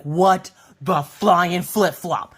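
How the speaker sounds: slow, drawn-out exclamation of disbelief; hammed-up bewildered outburst; stunned outrage. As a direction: punch each word slowly, appalled. Acted shock after the swab.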